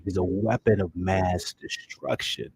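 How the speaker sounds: slow, weighty hero delivery; Hawkman cadence. Retold or imitated. Fan copying Hawkman's cadence, slowly and deliberately. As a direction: lay every word down slowly like the hero. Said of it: "His cadence, the way he delivers it".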